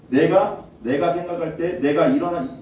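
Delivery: usual speaking voice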